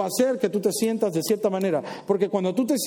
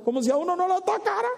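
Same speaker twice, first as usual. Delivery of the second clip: sarcastic aside; 11 semitones higher, faster than usual. Acted.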